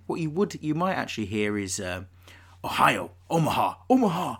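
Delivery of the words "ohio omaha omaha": mock American quarterback call; American-accented play call, rising higher. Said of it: "That's a pretty good American accent".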